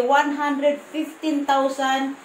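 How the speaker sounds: counting the money out slowly, word by word. Real, not acted. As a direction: draw each number out as you count. (mabagal na pagbibilang)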